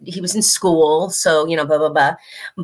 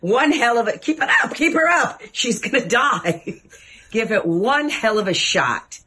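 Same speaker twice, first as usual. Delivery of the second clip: cracking up while egging him on; giggling high pleading; laughing; 6 semitones higher than usual. Real, not acted. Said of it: "laughing while urging".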